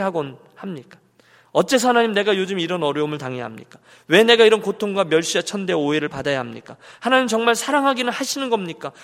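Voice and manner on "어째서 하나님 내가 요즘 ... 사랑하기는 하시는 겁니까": acted indignant questioning; hammed-up aggrieved protest; arguing with God. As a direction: demand answers, pressing each question. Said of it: "이렇게 따지면서 나아가요".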